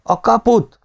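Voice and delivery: very high, urgent shout; shouted demand. A narrator's reading. Several soldiers demanding the gate, shouting. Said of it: "kiáltották néhányan".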